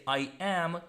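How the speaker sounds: I AM as two full words; I AM with both vowels full; uncontracted I AM. Shown as a demonstration. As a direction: say I AM separately, "eye am". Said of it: "Please do not say".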